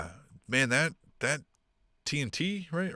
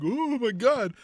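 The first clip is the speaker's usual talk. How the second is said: mock shock; 12 semitones higher, slower than usual. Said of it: "everybody's gotta be like".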